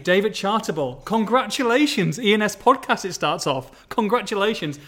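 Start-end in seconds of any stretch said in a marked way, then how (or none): 1.0-3.0 mock grand reading. Reading the email aloud grandly. 3.9-4.8 mock emotional reading. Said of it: "I've got a little bit emotional there".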